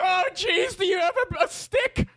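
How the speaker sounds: high, alarmed acted yell; mock-horrified victim. Victim naming lame weapons, high mock-alarmed yell. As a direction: cry out high, climbing on the last word. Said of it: "lame weapons".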